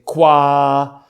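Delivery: "quoi" drawn out in French; French stalling "quoi"; French filler word. Retold or imitated. Imitating French speakers filling the gap, French accent. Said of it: "or they say".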